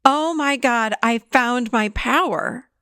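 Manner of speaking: lightly elated, first words lifted; slow emphasis on a happy discovery; happy, retold. Therapist retells a client finding her power, happy. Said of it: "She was so happy".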